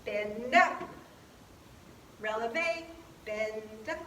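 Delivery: quick bend and up. Shown as a demonstration. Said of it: "usually faster".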